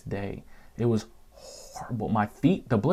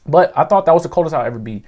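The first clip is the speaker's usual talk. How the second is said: louder burst; 7 semitones higher, 10 dB louder, faster than usual. Real, not acted. Build-up to the punchline.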